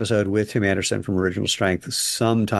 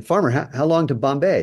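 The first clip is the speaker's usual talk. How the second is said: higher, more insistent call; a traveller calling louder the second time; louder retold yell; 6 semitones higher than usual. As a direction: shout it again, now impatient. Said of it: "He yells again".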